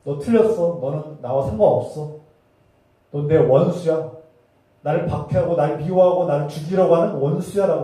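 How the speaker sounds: loud, emphatic divine rebuke, lightly voiced; Jesus rebuking. Jesus disowning Saul as his enemy, stern rebuke. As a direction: denounce them forcefully in a retold quote. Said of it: "예수님이".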